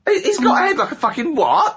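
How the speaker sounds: high-pitched repeated question; high squeaky voice. Pretend. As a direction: squeak it again, way up.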